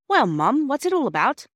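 can't hold the curiosity in; eager curious question. Acted. Curious station master calls out.

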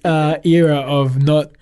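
slow, high, loud and amused; laughing mock-pompous. Real, not acted. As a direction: draw it out grandly through a laugh. Jokes about his losing club.

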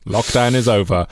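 mock-solemn wartime orator; rally the nation in measured, repeated phrases; hammed-up parliamentary address; Churchill. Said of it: "an odd Churchillian response".

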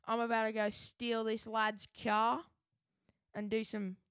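attempted South London accent; lightly put-on South London lad; Eggsy. Co-host retells stealing the car as Eggsy, attempted South London accent. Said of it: "You cannot escape from this Eggsy accent".

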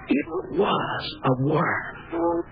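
slow, high, awestruck; horrified realization. Acted. Charles telling his dead wife what he saw, horrified. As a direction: let the horror sink in.

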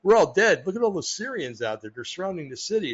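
retelling a servant's panic, a hammed-up fright with a jump at "We're all dead"; mock panic. Servant sees the enemy army surrounding the city, mock panicked. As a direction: play the servant half-seriously freaking out, pitch jumping up. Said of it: "his servant started freaking out".

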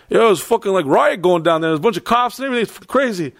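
high-pitched excited New York guard; New York accent. Retold or imitated. Security guy describing a riot, imitated excited New York accent. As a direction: report trouble as an imitated New Yorker. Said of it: "this from New York".

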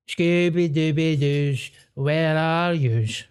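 slow, drawn-out sing-song calling out; drunken street call. Retold or imitated. Friend imitating a Glasgow wino calling for his pals, slow and drawn out. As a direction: stretch it out like a wino shouting down the street.

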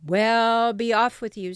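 loud troll dismissal; gruff troll. Acted. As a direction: send the goat away as the troll. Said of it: "roared the troll".

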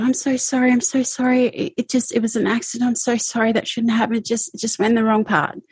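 retold frantic apology. Abuser's panicked apology, retold.

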